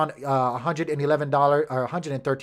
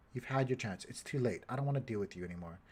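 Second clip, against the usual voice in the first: mock scolding; 4 semitones lower, 13 dB quieter than usual. Real, not acted. Scolding the mouse that stopped working.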